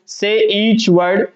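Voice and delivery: slow, word-by-word reading; deliberate classroom read-out; read aloud clearly. Shown as a demonstration. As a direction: say each word separately, with gaps. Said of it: "थोड़ा सा तेज आवाज में बोलेंगे".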